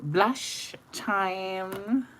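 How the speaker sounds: high, sung-out blush time; excited announcement. Acted. To viewers, announcing the blush step, sung out high. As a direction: announce it like a showstopper.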